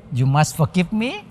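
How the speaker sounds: ordinary delivery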